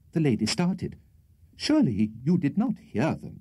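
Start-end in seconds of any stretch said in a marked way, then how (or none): 1.6-3.4 higher, coy lady's voice; bashful. A narrator's reading. Rachel to Tupman who overheard her, bashful. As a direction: say it shyly, pitched up. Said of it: "she said bashfully".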